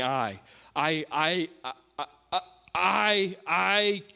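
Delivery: imitating a stutterer stuck on "I"; mock stammer on one word; stuttering. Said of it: "he's stuttering".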